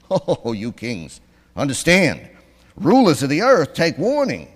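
loud, high warning with laughs; preacher hamming up the psalm's warning; mock warning. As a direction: thunder a warning at kings, half laughing.

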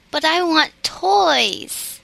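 put-on a girl's slow tearful protest; tearful cry. A narrator's reading. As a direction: plead through welling tears. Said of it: "cried Bessie".

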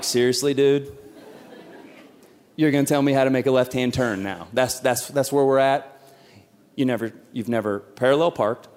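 a touch of low, dry disbelief; mild mock outrage at a backseat driver; exasperated dad. Dad mildly fuming inside at his son's advice. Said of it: "I'm like".

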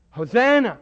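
joyful shout of Hosanna!; crowd acclamation. Retold or imitated. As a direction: cry it like the crowd on the road.

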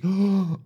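sharp high intake of breath; acted gasp. Old man spotting the passport's owner, dramatic gasp. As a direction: gasp as if finally spotting someone.

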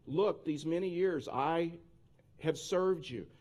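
slow, drawn-out, mildly whiny reading; whiny complaint. Acted. Older son complains to his father, mildly whiny. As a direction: read it as a lightly aggrieved older son. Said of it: "like, a whiny voice".

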